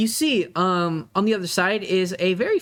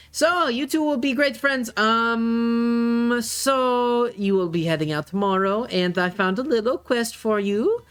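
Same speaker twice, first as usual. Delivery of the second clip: higher-pitched dad setting up a quest; lightly voiced father, upbeat; 5 semitones higher, slower than usual. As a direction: send them off as a pleased organiser dad. GM plays the father.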